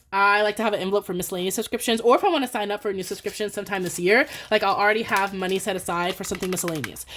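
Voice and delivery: quick, running chatter; speaking too fast. Real, not acted. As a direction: rattle through the explanation. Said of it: "speaking too fast".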